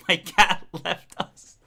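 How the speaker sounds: slow, solemn mock-grief; slow mock-mournful announcement. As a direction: say it like a death in the family. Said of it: "don't say it like that".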